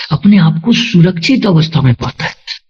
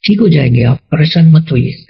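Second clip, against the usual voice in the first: smooth reassurance. Shown as a demonstration. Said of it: "आप उसको smoothly ऐसे".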